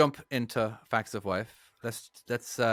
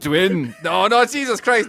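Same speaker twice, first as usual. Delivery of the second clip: louder, strained attempt at a Russian accent; an Irishman trying to sound Russian; clumsy Irish-flavoured Russian accent; bad Russian accent; 7 semitones higher, 8 dB louder than usual. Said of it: "sound like an Irishman trying to do Russian".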